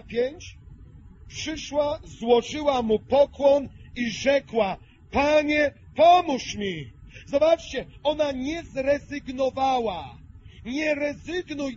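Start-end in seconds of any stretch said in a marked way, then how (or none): 5.1-6.9 pleading. Acted. Woman begs Jesus for help.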